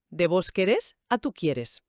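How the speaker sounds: slow, querés stressed on the end and quieres on QUIE; contrasting stress. Shown as a demonstration. Teacher contrasting the two forms for the listener, slow with shifting stress. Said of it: "con el golpe al final".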